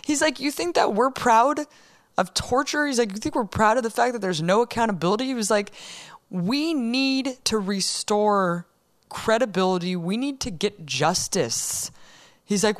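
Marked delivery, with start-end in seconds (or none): 0.4-5.2 raised pitch, incredulous challenge; indignant retold question. Host quotes officer on torture, indignant. 6.3-11.9 slow, deliberate declaration; emphatic retold insistence. Host quotes officer calling for justice, slow and emphatic.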